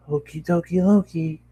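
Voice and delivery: pony explaining herself to her owner, very high. Acted. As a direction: chirp it like an eager cartoon pony. Pony cheerful reply.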